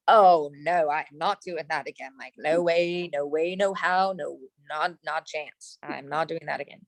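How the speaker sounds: retold flat-out refusal, trailing down in volume; emphatic refusal. Retells refusing the dating app.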